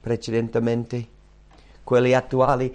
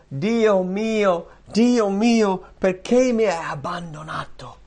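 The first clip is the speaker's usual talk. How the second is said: high, loud cry of forsakenness; impassioned, drawn-out high wail; 8 semitones higher, 4 dB louder, slower than usual. Acted. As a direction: cry out to God from the cross. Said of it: "gridò".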